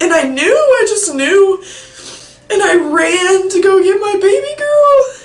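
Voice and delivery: loud, high-pitched tearful telling; real sobs breaking into the story; crying. Real, not acted. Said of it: "can't say without crying".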